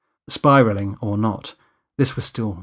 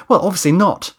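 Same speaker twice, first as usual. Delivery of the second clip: louder, higher irritated retort; rather gruff; 8 semitones higher, 6 dB louder than usual. Acted. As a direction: brush the sarcasm off testily. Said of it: "I said rather gruffly".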